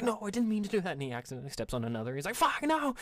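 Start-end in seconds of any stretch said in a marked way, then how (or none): 0.0-0.9 high, loud panicked protest; hammed-up clumsy Minotaur overreaction; overreacting. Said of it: "he, like, over fucking reacts". 2.4-2.9 high, loud mock-horrified outburst; overreacting. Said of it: "he, like, over fucking reacts".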